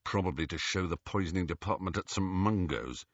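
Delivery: low, muttered sarcasm; under his breath. A narrator's reading. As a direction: mutter it aside. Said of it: "said Ron under his breath".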